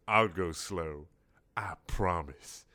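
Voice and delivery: slow, low, hushed promise; slow soothing squid. Acted.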